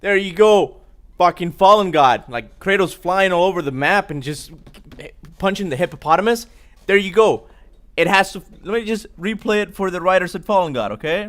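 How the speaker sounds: shouting excitedly, voice pushed high; gleeful triumphant yelling at the screen; loud excited cheer. Real, not acted. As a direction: hype it up loud like cheering a goal. Cheering the clip, mocking comic.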